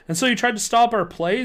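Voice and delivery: demanding. Acted. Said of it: "Zeke demanded".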